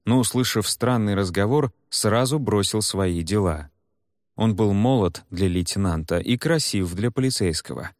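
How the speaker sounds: ordinary delivery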